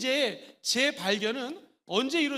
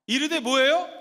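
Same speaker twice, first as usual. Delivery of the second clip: ordinary talk, nothing marked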